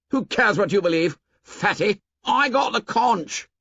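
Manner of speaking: high, jeering bully voice; angry. A narrator's reading. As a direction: Jack sneering at Piggy. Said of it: "unaccountably angry".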